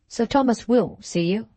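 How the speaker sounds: will given a little extra weight; a servant stressing will to the stranger. A narrator's reading. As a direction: lean on the word will. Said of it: "putting some stress on the word will".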